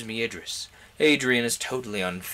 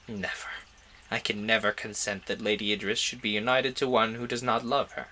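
controlled calm, softer than the narration; calm reply; 3 dB quieter than usual. Acted. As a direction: hold the voice calm over a racing heart. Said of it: "I replied in a calm voice".

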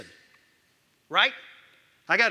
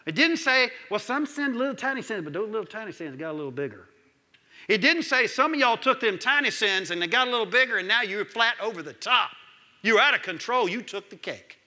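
preaching fervor; 3 semitones higher, 3 dB louder than usual. Acted. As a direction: drive it home to the church. Preaching at full force.

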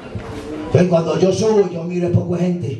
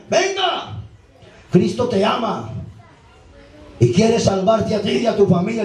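high woman's venga easing into a gentle appeal; church woman inviting; 4 semitones higher than usual. Retold or imitated. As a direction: coax him in like the church lady. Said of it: "Así es un mujer".

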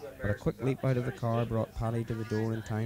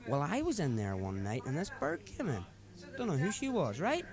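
put-on higher-pitched drunken friend preaching life advice; drunk mate Paddy; 4 semitones higher than usual. Drunk driver lecturing his passenger about responsibility, higher voice. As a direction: lay out your drunken philosophy earnestly.

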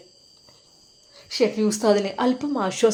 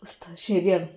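whisper; 3 semitones lower, 4 dB quieter than usual. Acted. Weeping teacher agrees, broken.

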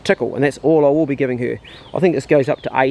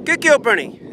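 high-pitched praise; 9 semitones higher, slower than usual. Real, not acted. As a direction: praise her up high and happy. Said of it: "I always go in a high-pitched voice".

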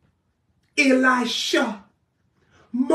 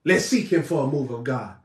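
much lower, softer limp prayer; mock timid leader; 12 semitones lower, 8 dB quieter than usual. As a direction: mimic a weak spiritual leader. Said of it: "people leading people talking about".

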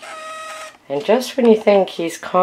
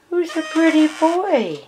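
pet-talk coo, higher, stress on "pretty"; sing-song coo; 5 semitones higher than usual. Real, not acted. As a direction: coax the bird with a lilting tune. Cooing to the bird.

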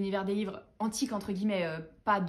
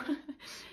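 soft, breathy little laugh; short laugh; 5 semitones higher, 7 dB quieter than usual. Real, not acted. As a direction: chuckle softly to yourself. Laughs at her own enthusiasm.

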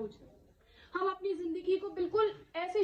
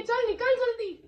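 higher-pitched urgent order, acted; angel's harsh command; 6 semitones higher, 3 dB louder than usual. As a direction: order the soul out as a stern angel. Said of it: "फरिश्ते इस तरह से लेने आएंगे".

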